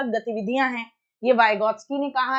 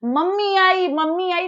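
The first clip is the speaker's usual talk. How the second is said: excited call; 5 semitones higher, 3 dB louder than usual. Retold or imitated. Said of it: "अब कोई बोलने लगे".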